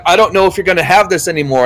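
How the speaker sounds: imitating a doctor's thick accent, quickly; quick mock Middle Eastern doctor accent; thick foreign accent. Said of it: "he's talking in this accent that I can barely understand".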